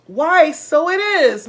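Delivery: slow, high and loud surprise; surprised Mrs Twit. A narrator's reading. Wife startled at her stick, high surprise. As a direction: gasp it out, startled.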